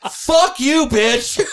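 high, loud retort through real laughter; laughing shout. Real, not acted. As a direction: burst out laughing while firing back. Bursts out laughing at jab.

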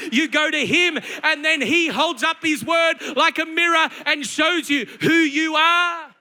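forceful, driving sermon delivery; impassioned preaching. Real, not acted. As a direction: hammer each phrase home to the congregation.

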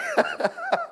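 a giggle that breaks high; high squeaky laugh. Real, not acted. New father composing himself after baby photo, squeaking laugh.

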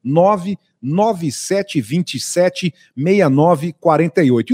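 slow, paused digits; speaking slowly. Shown as a demonstration. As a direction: dictate the phone number slowly. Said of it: "Tô falando pausadamente".

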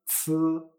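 "z" as Chinese ci, held with no i; silent I. Shown as a demonstration. Teacher recalling initial sounds, "z" with silent I. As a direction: say "z" like ts with air, no i. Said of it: "la I no se pronuncia".

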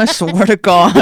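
host laughing while fake-scolding guest about crying; mock threat laughing. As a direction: threaten them jokingly through laughs. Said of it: "I'm like".

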